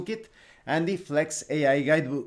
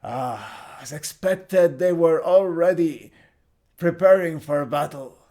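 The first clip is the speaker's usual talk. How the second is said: put-on character voice, building louder; Nebulon; 5 dB louder than usual. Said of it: "Nebulon speaks".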